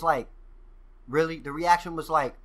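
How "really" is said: retold shock. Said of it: "I was so shocked".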